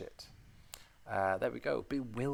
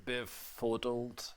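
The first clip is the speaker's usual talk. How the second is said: savouring slowly; 3 dB quieter, much slower than usual. Shown as a demonstration. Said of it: "Sounds so good".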